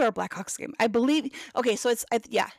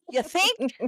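sarcastic retort; 6 semitones higher than usual. Retold or imitated. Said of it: "And I'm like".

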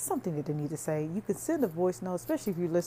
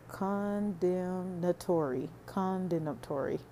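"condemnatory" drawn out slowly, syllable by syllable; 4 dB quieter, slower than usual. Shown as a demonstration. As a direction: spell out "condemnatory" slowly so it lands. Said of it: "I have to say it slow".

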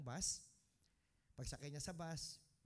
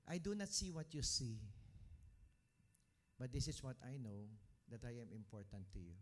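prayer; 2 semitones lower than usual. Shown as a demonstration. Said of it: "and tell the Lord".

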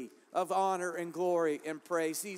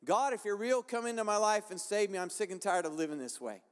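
retold prayer. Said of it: "All I did was said".

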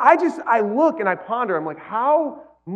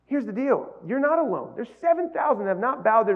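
softer, calm reassuring God; gentle reassurance; 2 semitones higher, 3 dB quieter than usual. Retold or imitated. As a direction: comfort him quietly, like a patient father. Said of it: "And the Lord is saying".

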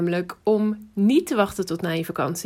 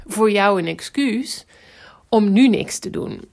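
whispering; slower than usual. Real, not acted. Pointed rhetorical question to listener.

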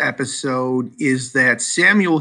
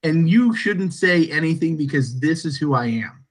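no qualms. Acted. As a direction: state who you are with no hesitation, weighting each word. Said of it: "Hathaway has, has no qualms going".

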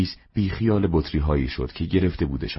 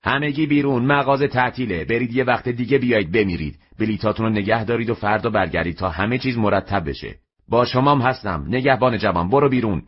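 high, raised voice ordering everyone out; shouting out customers; 6 semitones higher than usual. Acted. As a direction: yell at the crowd to get out of the shop. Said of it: "فریاد کشید".

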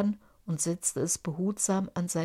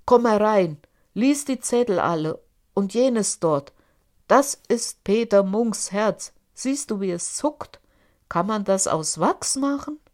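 loud, grim giant voice; angry giant; 3 semitones higher, 7 dB louder than usual. A narrator's reading. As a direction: fling the door open and boom. Giant shows the hearts.

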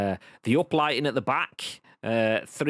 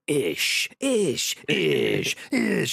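zombie groan; 3 semitones higher, 3 dB louder, much slower than usual. Acted. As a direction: pitch jumping zombie moans. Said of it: "full on arms out going".

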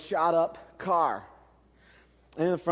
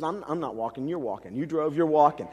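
dead serious; 4 semitones lower than usual. Retold or imitated. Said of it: "looks at me with great seriousness and says".

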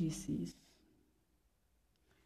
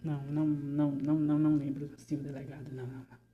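panicked denial; 3 semitones lower, 3 dB louder, faster than usual. Acted. Denial to the delegado.

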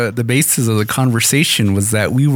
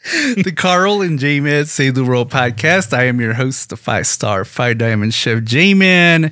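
cowboy host voice; 2 semitones higher than usual. Pretend. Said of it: "we were talking in that manner".

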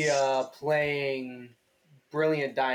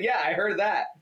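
raised, louder mock reply; mocking imitation; 5 semitones higher, 3 dB louder than usual. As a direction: replay the answer in a mocking voice. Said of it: "And I said".

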